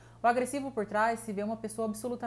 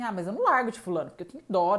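louder, rushed excuse; mock pitying enabler; 6 dB louder, faster than usual. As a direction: blurt the excuse defensively. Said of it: "uma pessoa fala assim". (imitando quem não larga o parceiro, falando rápido e alto)

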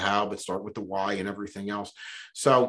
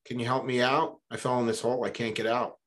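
mock yell for help out of a pit; 2 semitones higher, 3 dB louder than usual. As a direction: call up from the bottom of a hole to the doctor. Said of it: "he yells up".

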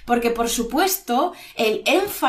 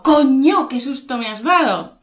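startled; 2 semitones higher, 5 dB louder than usual. Shown as a demonstration. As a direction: demonstrate a sudden fright. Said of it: "Y el susto".

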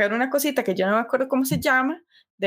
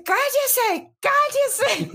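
panicked hush; 14 semitones higher, much slower than usual. Retold or imitated. Begging laughing friend to shut up.

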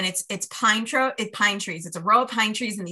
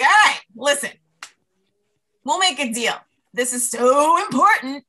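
negotiating; 5 semitones higher, 6 dB louder than usual. Retold or imitated. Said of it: "I make a negotiation".

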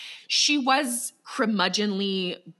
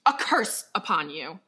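slow, loud witch's curse; laying a curse; 4 dB louder, slower than usual. Acted. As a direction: spit out a slow hex. Acted witch lays a curse.

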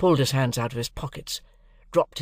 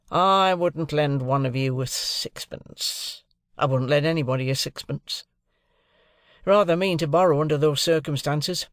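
surly Drummle; 3 semitones higher than usual. Acted. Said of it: "said Drummle".

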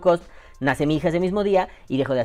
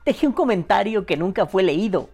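mock-dramatic lament, a touch higher; dramatic reading; 4 semitones higher, 3 dB louder than usual. Shown as a demonstration. Host reading a fan's lament on request, mock dramatic. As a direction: read it like a tragic confession. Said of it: "Digas en entonación dramática".

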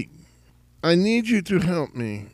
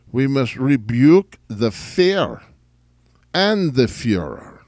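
rallying cry; 7 dB louder than usual. Acted. Rallying speech.

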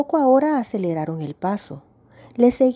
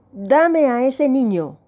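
put-on slow, raised demand for the child; shouting; 5 semitones higher, slower than usual. A narrator's reading. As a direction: bark the order at the mother, slowly. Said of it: "Gritó". (grito lento y exigente)

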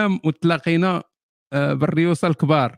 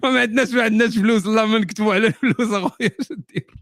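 mock whining; 6 semitones higher than usual. Mocking writers who plead poverty.

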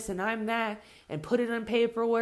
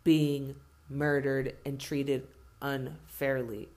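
lower, mock-smug voice, slowing near the end; mocking white voice; 5 semitones lower than usual. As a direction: sneer it as the hypocrite, dragging the last lines. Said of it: "justifiable for whites to fucking act the way they do".

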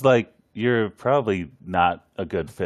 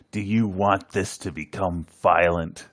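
scariest voice; 4 semitones lower than usual. Retold or imitated. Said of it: "In the scariest voice he can muster".

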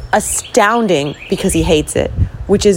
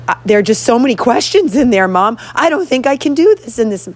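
whiny protest; 5 semitones higher than usual. Retold or imitated. Son complaining about too many questions.

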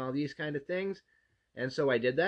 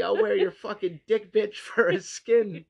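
loud, slow, higher mock angry celebrity chef; Gordon Ramsay; 6 semitones higher, 6 dB louder, slower than usual. Berating a contestant on a cooking show in a loud hammed-up rant. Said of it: "Gordon Ramsay".

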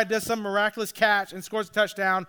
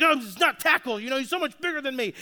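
put-on crying angry kid; 3 semitones higher, faster than usual. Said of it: "He's crying. He's so angry".

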